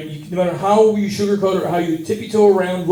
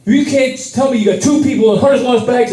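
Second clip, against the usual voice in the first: rising outrage at the counter; complaining hotly to the airport lady; angry rant; 3 semitones higher than usual. Retold or imitated. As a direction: let the indignation build to a rant. Ranting at airport staff.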